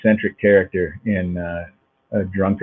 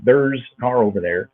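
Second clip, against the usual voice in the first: Minnesota accent; 2 semitones higher than usual. Shown as a demonstration. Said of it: "a kind of a rhythm here".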